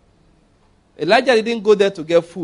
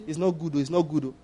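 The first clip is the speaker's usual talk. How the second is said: weak protest; 7 dB quieter than usual. Retold or imitated. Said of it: "Don't say".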